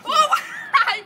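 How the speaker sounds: laughing. Real, not acted. Breaks something, laughing.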